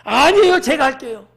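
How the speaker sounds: loud, high insistent protest; eager insistence. Acted. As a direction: push back and volunteer with force. Acted eager reply to discourager. (높고 크게 나서며 우기기)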